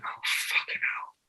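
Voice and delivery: breathy whisper of dismay; hushed defeated whisper; whispered curse. Retold or imitated. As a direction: swear under your breath, no voice. Dismayed under his breath.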